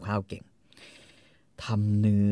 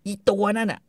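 high, loud jealous rant; wife accusing her husband about his girlfriend; mock ranting wife; 7 semitones higher, 4 dB louder than usual. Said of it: "คอนนี่ก็บอกว่า".

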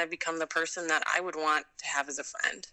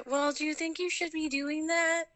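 a much higher voice of a doubtful mother; mild mock of a worried mom; imitating worried mom; 11 semitones higher than usual. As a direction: raise the voice into a fretting mom. Mom questioning her risky plans.

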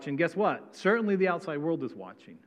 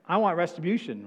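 "I want retribution" pushed louder and higher; louder demand; 4 semitones higher, 5 dB louder than usual. Retold or imitated. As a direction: demand revenge with heat. Voicing a vengeful believer.

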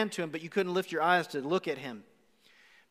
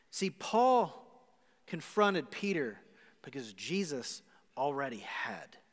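hushed, breathy-free unvoiced close; whisper; 5 semitones lower, 6 dB quieter, slower than usual. Real, not acted. Preacher whispers the key truth to the congregation. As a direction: drop to a whisper for the point. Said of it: "whispered closing line".

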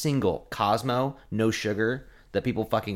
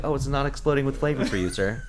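snide server; 3 semitones higher than usual. Retold or imitated. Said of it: "And I'm like".

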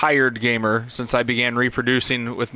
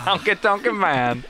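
sing-song announcer; 6 semitones higher than usual. Pretend. Wrestler name repeated sing-song.

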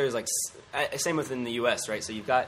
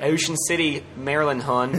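loud, higher mock Baltimore accent; punchy Baltimore impression; 4 semitones higher, 6 dB louder than usual. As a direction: ham up a Baltimore local. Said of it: "the Baltimore accent as well".

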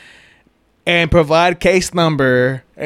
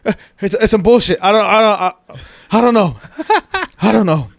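mock panic; 4 semitones higher than usual. Imitating panicked friend.

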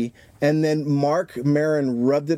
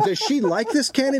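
asked higher through real laughter; laughing question; 8 semitones higher than usual. Real, not acted. Asks while still laughing.

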